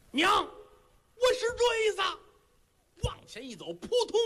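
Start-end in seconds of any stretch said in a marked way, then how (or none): 0.1-2.0 very high, very slow, tearful cry; a son choking up as he meets his mother; tearful reunion. Acted.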